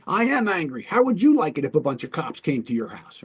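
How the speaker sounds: indignant retort, pitch jumping at the start; mock angry comeback to being labeled. Upset man answering the negotiator, acted indignation. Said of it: "you sound really angry".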